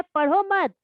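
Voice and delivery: पढ़ो मत as one unit, peaking on मत; pause after मत. Shown as a demonstration. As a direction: run पढ़ो into मत, then stop short of the next word. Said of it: "यहाँ अल्प विराम का स्थान बदल जाने पर". (पढ़ो मत साथ में बोलकर मत के बाद रुकें)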